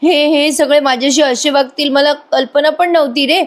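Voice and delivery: high, wailing, put-on sobbing plea; mock tearful pleading. Priya begs Ashwin not to leave, mock tearful high whine. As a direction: whine it out like a fake crying victim. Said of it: "लगेच प्रिया रडायला लागते".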